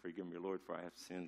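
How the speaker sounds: quiet, laughing through a playful confession; soft joking plea broken by laughter; laughing mock confession. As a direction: confess to the Lord while giggling at himself. Mock confession after accent joke.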